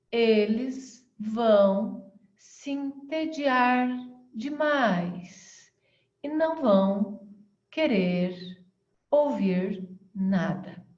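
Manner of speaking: very slow, drawn-out, sluggish delivery with pauses. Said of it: "você está falando de uma forma muito lenta".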